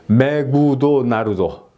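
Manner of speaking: "메구도 나루도" with every syllable a full beat; evenly beaten syllables on "메구도 나루도"; Japanese mora-style pronunciation. Shown as a demonstration. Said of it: "이런 것처럼".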